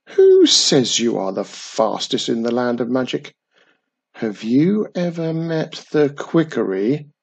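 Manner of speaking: a hint of a sceptical old storyteller; a touch of an old man teasing the boastful witch.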